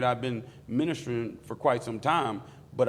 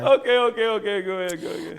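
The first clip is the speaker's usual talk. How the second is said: excited okays; 10 semitones higher, 8 dB louder than usual. Real, not acted. Settling down after interrupting.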